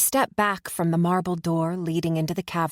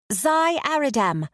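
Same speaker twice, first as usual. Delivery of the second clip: calling out; 8 semitones higher than usual. Acted. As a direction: summon the next champion across the room. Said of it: "the satyr calls".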